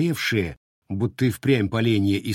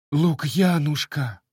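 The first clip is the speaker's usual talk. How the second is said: sobbing cry; 6 semitones higher, slower than usual. Acted. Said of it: "всхлипнула и Устинья".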